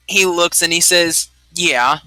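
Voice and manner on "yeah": a mildly hesitant yeah, ending on a rise. Acted. Game master voicing the man asked about his life, hesitant. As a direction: agree with a touch of hesitation. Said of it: "like, this hesitation to it".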